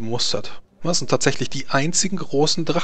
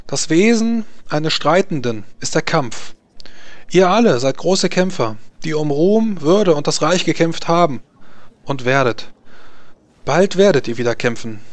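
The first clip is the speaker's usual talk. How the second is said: höher und lauter, feierliche Ansprache; Kaiserin spricht zu den Rittern; 5 semitones higher than usual. Acted. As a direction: eine Regentin, die ihre Ritter anfeuert. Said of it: "Emas klare Stimme trägt durch die ganze Arena". (Kaiserin spricht klar zu den Kämpfern, feierlich und laut)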